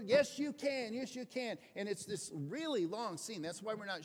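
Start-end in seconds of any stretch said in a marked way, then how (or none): 0.0-1.6 louder, higher firm encouragement; insistent coach. Retold or imitated. Coach pushes exhausted player onward, louder and insistent. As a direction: refuse to let him quit. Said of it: "coach insists".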